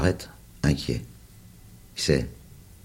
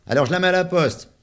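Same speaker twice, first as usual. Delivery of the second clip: put-on high, loud kid's taunt; sing-song the name to tease; mocking child voice; 14 semitones higher, 4 dB louder than usual. A narrator's reading. Charles teasing the little one about his letter, high and loud. Charles throws the card away.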